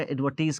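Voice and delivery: एडवर्टीज with a long "ee" before the z; "-tise" said as "-teez". Shown as a demonstration. Teacher correcting "tize" for students: एडवर्टीज said with "teez". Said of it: "टाइज नहीं कर रहे".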